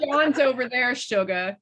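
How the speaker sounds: a hint of a raspy, sultry dancer. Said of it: "a raspier, like, more sultry voice".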